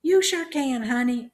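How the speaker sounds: put-on very high, loud old-lady voice; loud old aunt. A narrator's reading. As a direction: holler back agreeably. Deaf aunt answers loudly.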